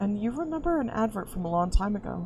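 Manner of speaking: ordinary delivery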